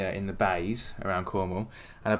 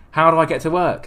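louder, higher indignant protest; mock outrage of the stuck driver; a retold fuming complaint; exasperated cry; 5 semitones higher, 8 dB louder than usual. Retold angry local at police.

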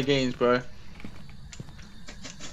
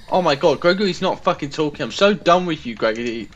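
swearing tirade; 2 semitones higher than usual. Real, not acted. Frustrated at silent ghost.

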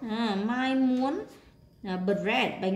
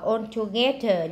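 "all together" with weight on "geth"; third-syllable stress; slower than usual. Shown as a demonstration. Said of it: "nhấn âm ba".

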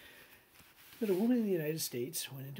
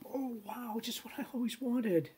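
mock delight; 7 semitones higher than usual. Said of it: "people receive them and go".

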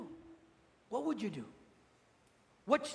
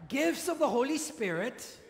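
measured prompt, left rising for the echo; evenly spaced phrase held open for repetition; repeat-after-me prompt; 2 semitones higher than usual. Shown as a demonstration. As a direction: lead the group in reciting. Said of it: "Please repeat after me".

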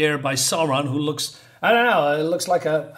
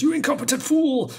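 yelling; 11 semitones higher than usual. Retold or imitated. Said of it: "he screams to this guy".

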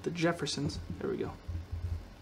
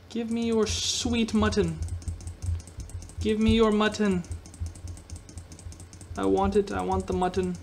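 mock greedy demand; 3 semitones higher than usual. Gamer greedily demanding mutton from a sheep.

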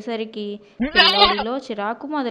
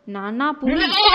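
raised, higher cry of alarm; mild shout; 4 semitones higher, 6 dB louder than usual. A narrator's reading. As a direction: narrator lightly voicing a boy calling out to his father. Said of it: "అంటూ అరవడం మొదలుపెట్టాడు". (కొంచెం గట్టిగా అరుపు)

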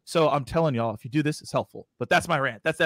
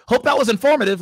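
high, louder mock email voice; weird email voice; 7 semitones higher, 7 dB louder than usual. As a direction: send up a canned sign-off in a silly voice. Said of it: "So I say it in a weird voice".

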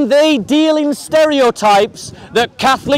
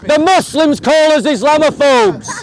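slow, emphatic raised voice; heated oratory; 2 semitones higher than usual. Real, not acted. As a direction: declaim it deliberately over the hecklers. Heated public debate over hecklers.

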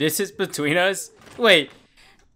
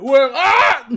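higher, louder yelp; excited yelp; 10 semitones higher, 10 dB louder than usual. Real, not acted. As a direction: squeal it out. Reacting to scene.

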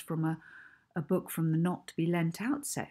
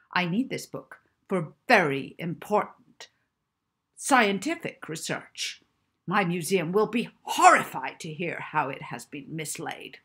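louder, commanding professor; bossy orders; 5 dB louder than usual. Acted. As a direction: lay down the law to the librarian.

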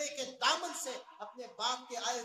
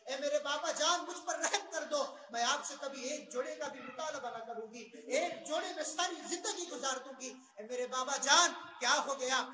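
pleading for life. Retold or imitated. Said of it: "یہ گہار لگانے لگتی ہے". (باپ سے زندگی کی بھیک مانگتی بچی، اونچی فریاد)

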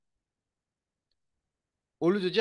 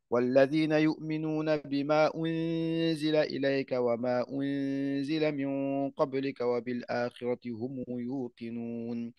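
Quran recitation; 4 dB louder than usual. Acted. Teacher recites the start of al-Baqara, chanted. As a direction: recite with long held madd.

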